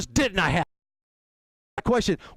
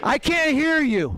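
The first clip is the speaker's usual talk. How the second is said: rally call; 5 semitones higher, slower than usual. Real, not acted. Urging crowd to shout.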